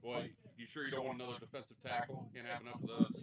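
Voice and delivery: sarcastic. Acted. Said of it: "I'm being sarcastic".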